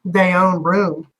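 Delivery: slow drawn "They own room" in a put-on Cajun lilt; mock Cajun grammar. Shown as a demonstration. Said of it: "Cajun accent".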